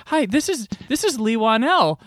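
high, put-on introducing voice; imitated introduction. Screener introducing the film's writer, high imitated introduction. Retold woman making an introduction.

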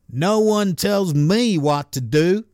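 slow, lightly attempted Missouri accent. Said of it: "is that the right accent for someone in Missouri?".

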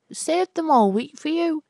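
put-on fond young man. Albert proudly hands Florrie his saved pennies, high. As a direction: beam it at her proudly. Suitor answers fondly.

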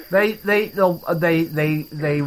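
stuttering on they; mock stutter, repeating they. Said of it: "It, it made me stutter".

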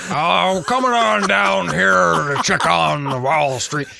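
loud, high, hammed-up Texan drawl; mock a terrible Texan accent, drawn out; horrible Texan accent. Podcaster mimicking the villain after the bomb, bad Texan accent. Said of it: "does that horrible Texan accent".

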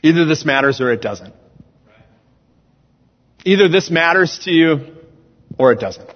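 emphatic, projected sermon delivery; preaching. Real, not acted. Preacher telling the church God lives within them, preaching. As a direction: preach it in measured, weighted phrases.

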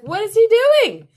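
put-on high child's question; little daughter voice. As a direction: ask it as the curious little girl. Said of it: "she's like".

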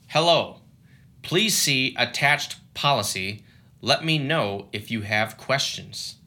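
flat, lifeless email reading; robot voice. Retold or imitated. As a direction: read it like a bored machine. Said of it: "That was my robot impression".

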